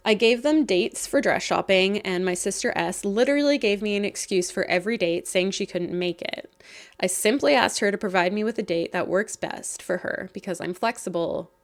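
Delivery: hoarse, croaky frog voice; a croaky throat while talking. Real, not acted. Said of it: "I'm sounding like a little croaky frog".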